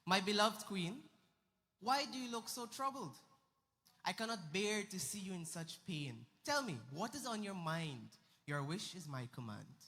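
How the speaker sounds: consoling king. Acted. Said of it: "So he consoled her".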